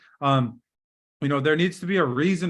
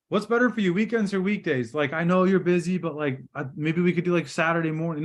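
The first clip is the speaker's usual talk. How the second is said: imitating over-eager rambling. Trainer mimicking agents who talk past the question, rambling. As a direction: question that runs on nervously into suggestions. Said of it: "I hear you guys all the time".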